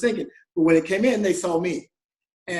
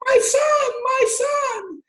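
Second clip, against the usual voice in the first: imitating a diva mother, much higher and louder; dramatic mother's cry; 4 dB louder, much slower than usual. Dreamed-up mother calling to her son from a limo, hammed-up cry. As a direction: call out like a long-lost mother weeping with joy. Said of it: "diva-like character ... going".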